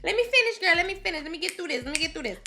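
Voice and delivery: worked-up high protest, voice cracking near tears; really pissed off. Real, not acted. Recapping the show to viewers, genuinely mad and near tears. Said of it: "Girl, I'm so pissed off".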